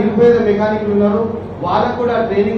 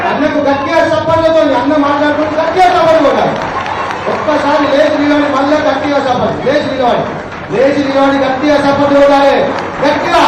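urging applause; 5 semitones higher than usual. Real, not acted. Urging audience to stand, clap.

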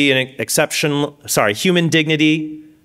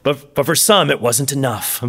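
mock documentary narrator. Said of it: "whenever I watch that".

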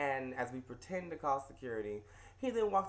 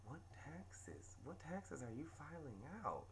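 incredulous; 11 dB quieter, slower than usual. Retold or imitated. Narrator's retort to customer.

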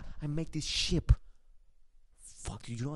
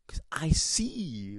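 slow whisper; much slower than usual. Real, not acted. Mock mystical boast.

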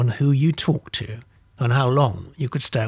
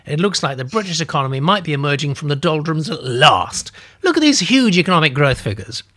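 earnest urging; 2 semitones higher, 3 dB louder than usual. Acted. Narrator urging the old lady about growth, louder. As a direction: push hard to make her listen.

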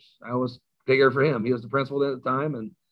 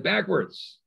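barked order; 6 semitones higher than usual. Retold or imitated. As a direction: coach calls out a sharp order, higher pitch. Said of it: "And he said".

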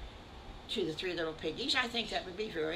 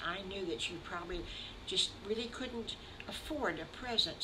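tender comfort; 6 dB quieter than usual. Acted. Mama Piggy tells the little wolf it's okay, softly and tenderly. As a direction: hush your voice and reassure him kindly.

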